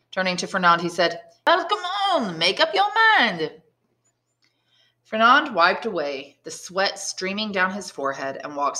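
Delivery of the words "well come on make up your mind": higher, coaxing drinking man; voiced Caderousse. Caderousse urging Fernand to join them, coaxing. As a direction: prod him to decide.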